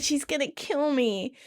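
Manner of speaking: mock panic. Rachel about Monica finding out, mildly panicked. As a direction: fret that trouble is coming. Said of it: "Rachel panics".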